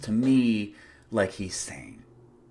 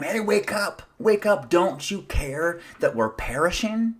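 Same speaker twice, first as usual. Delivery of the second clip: a retold panicked cry, pitched up high; mild mock yell; 7 semitones higher than usual. Disciples yelling to wake the sleeping Jesus, mild mock panic. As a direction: play the scared disciples calling out. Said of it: "And they yell to him".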